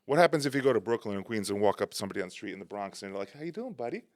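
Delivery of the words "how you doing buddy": higher, softer friendly mock greeting; pleasant greeting. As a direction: play the overly friendly stranger. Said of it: "you don't do pleasantries".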